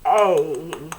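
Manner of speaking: long vowel A said out clearly; a drawn-out long A. Shown as a demonstration. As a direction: sound the long A, like in acorn. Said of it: "So acorn".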